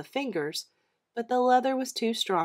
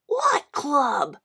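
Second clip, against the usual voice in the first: put-on puzzled boy; 6 semitones higher than usual. John puzzled.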